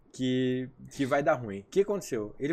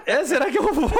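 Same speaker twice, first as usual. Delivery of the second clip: laughing hard, higher and louder; 11 semitones higher, 7 dB louder than usual. Retold or imitated. Reliving the session for friends, laughing loudly. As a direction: laugh through the question.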